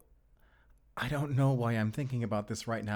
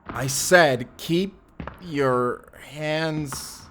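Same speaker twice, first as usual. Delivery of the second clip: repeated warning; 3 semitones higher, much slower than usual. Acted. Armed man repeating his order to the intruder, insistent. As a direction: spell out the order, forcefully.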